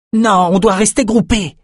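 high, forceful shouted objection; roared order. A narrator's reading. Bannon stops his panicking companions, roaring the order. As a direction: roar to hold the group together. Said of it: "rugit Bannon".

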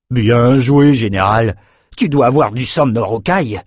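loud boisterous raider; raider's praise. Acted. Raider praising the general, boisterous. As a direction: clap him on the back.

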